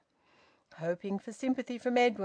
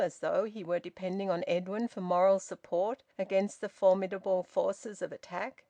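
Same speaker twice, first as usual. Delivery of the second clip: ordinary delivery, nothing marked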